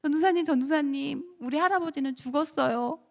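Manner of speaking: put-on mildly tearful kid's plea; imitated tearful child. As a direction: lightly act a child blurting through tears. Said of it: "막 눈물을 흘리면서".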